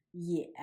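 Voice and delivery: Ye on a low dipping tone; third tone. Shown as a demonstration. Teacher showing students Ye in the third tone. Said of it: "pronounced in the third tone".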